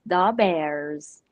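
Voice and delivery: put-on Chicago Superfans accent, lightly done; a touch of Chicago sketch accent. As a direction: imitate a Chicago sports fan's accent. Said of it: "they speak in that accent".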